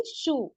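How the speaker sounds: शू with a soft hissing sh; whistled sh. Shown as a demonstration. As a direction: hiss the sh of शू. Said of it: "इसकी आवाज क्या आ रही है". (शू की सीटी वाली आवाज़)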